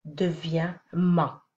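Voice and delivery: « ma » appuyé et lent; slow rule. Shown as a demonstration. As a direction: poser la règle lentement sur « ma ». (règle dite lentement)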